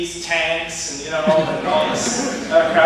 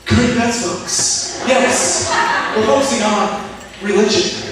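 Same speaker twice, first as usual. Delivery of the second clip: teacher impression; 4 semitones higher, 3 dB louder, slower than usual. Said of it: "He will do this".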